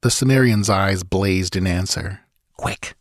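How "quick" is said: a soft, hushed urgent word; whispered. Acted. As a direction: hiss it low so the beast won't hear. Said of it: "the red priest whispered".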